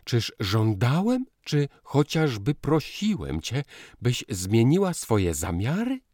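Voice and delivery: high, loud pained protest; pained call. A narrator's reading. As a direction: call out, hurt. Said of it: "zawołał boleśnie".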